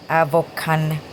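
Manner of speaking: Avocan with an o in the middle, AV-oh-kan; wrong caption version. Shown as a demonstration. Quoting wrong YouTube captions to viewers, mispronounced name. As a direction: read out the mistake Avocan loudly and distinctly. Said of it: "some were like".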